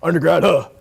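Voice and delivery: mock smug dismissal; smug brush-off. Smug banker brushing off an undergrad, mock smugness. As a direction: lightly act a snob waving someone off. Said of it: "someone's gonna be smug and be like".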